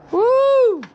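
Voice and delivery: short, high, loud cheer; a quick burst of joy; excited woo. Real, not acted. Cheer to viewers.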